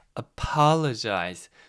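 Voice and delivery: "apologize" with stress on second syllable "pol". Teaching English word stress for sounding natural: stress on pol in apologize. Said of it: "이거는 중간에 강세 있습니다. 두 번째 강세를 주면서 얘기하면 훨씬 자연스럽게 들릴 겁니다".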